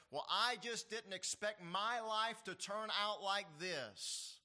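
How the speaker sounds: slow, drawn-out complaint; a hint of a let-down whiner; mock disappointed lament. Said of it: "maybe you've heard somebody say this".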